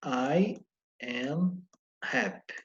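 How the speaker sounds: "I am happy" drawn out slowly, each word separate; slow full form. Shown as a demonstration. Teacher contrasting the full form for students, slow and separate. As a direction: stretch "I", "am" and "happy" apart.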